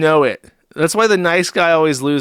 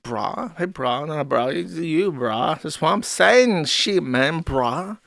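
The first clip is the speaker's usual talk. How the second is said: frat bro; 3 dB quieter, slower than usual. Retold or imitated. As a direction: drawl it like a zoomer bro. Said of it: "is that how Zoomers talk".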